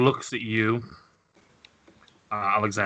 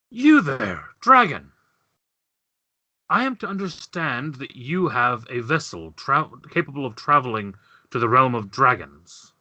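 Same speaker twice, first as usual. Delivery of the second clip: imperious Chulari. Acted. Chulari calls out the dragon about a vessel, imperious. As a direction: summon the dragon with lofty formality.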